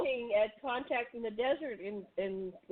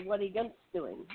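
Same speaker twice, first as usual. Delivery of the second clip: Pennsylvania Dutch accent; 3 semitones lower, 4 dB quieter than usual. Shown as a demonstration. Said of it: "Pennsylvania Dutch would say".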